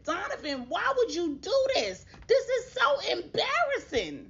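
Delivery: plead, mortified and whining; embarrassed plea. Retold or imitated. Girlfriend caught out by the baby's father, whining embarrassed plea.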